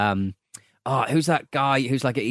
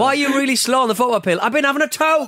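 mock celebration; 8 semitones higher than usual. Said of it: "punning goal celebrations".

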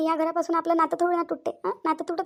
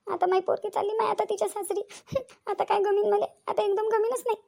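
higher-pitched, mildly weepy lament; a touch of crying at being left behind; tearful mother; 5 semitones higher than usual. Acted. Mother laments her daughter leaving for in-laws, mildly tearful. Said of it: "तू रडू नको".

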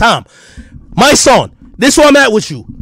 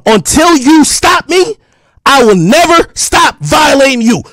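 slow angry shout; 2 semitones higher, slower than usual. Real, not acted. Daring a rival rapper to stop him, with a slow angry shout. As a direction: drag it out like a warning you mean.

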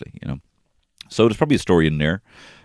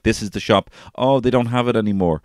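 a lightly raised, louder, breezy mum voice; mock-breezy mum; 7 semitones higher, 5 dB louder than usual. A mum telling her child the toy shop is out, breezy and lightly raised. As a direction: brush it off like a mum fibbing cheerily. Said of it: "she's like".

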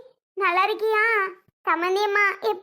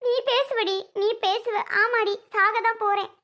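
higher-pitched, wounded outburst; upset retort; 4 semitones higher than usual. Acted. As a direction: throw it back at them, hurt and cross. Mother snaps back in family quarrel.

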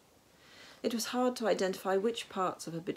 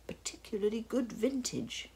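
higher-pitched put-on voice of a tipsy brother; raised, muddled character voice; Hans's voice; 5 semitones higher than usual. A narrator's reading. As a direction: explain it in a character voice. Hans's line in story.

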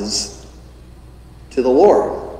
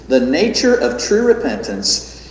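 solemn reading; 2 semitones higher than usual. A narrator's reading. Preacher reading J C Ryle's notes aloud, solemnly. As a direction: read with gravity and emphasis. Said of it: "when he says this".

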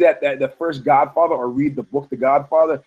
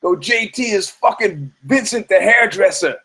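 guitar player's gossip; 8 semitones higher than usual. Retold or imitated. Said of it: "my guitar player calls me".

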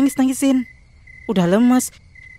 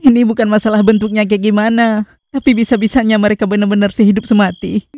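louder, aggrieved protest; loud outburst; 6 dB louder than usual. Acted. Jilted ghost cries out that they truly died together, loud outburst. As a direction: let the hurt burst out.

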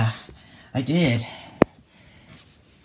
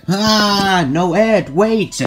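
panicked screams; 6 semitones higher, much slower than usual. Acted. Ponies see Ed attacked, panicked screams. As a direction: scream in alarm.

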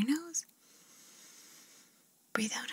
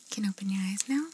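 ASMR whisper; 4 dB louder than usual. Acted. ASMR artist whispering instructions to the listener. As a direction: breathe the words gently, no voice.

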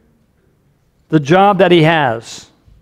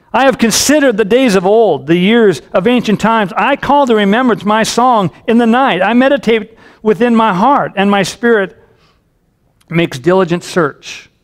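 raised, declamatory psalm reading; scripture reading; 4 semitones higher than usual. Acted. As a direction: recite the psalm earnestly to the congregation. Reads the psalm aloud.

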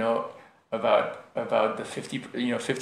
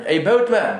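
mock call to the boatman, louder; British academic; 6 semitones higher, 7 dB louder than usual. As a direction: lightly act a haughty passenger calling out. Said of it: "And then, like, a half hour later".

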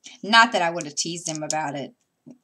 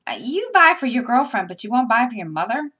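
higher, louder mock scolding; teasing; 8 semitones higher, 9 dB louder than usual. Mother teasing son over gift for girlfriend, mock indignant. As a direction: poke fun at him like an outraged mom. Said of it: "I was teasing him".

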